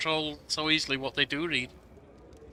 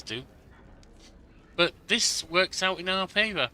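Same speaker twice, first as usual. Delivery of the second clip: put-on urgent young advisor; 3 dB louder than usual. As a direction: read it as a worried young advisor bringing bad news. Reads advisor Lindsay's dialogue aloud.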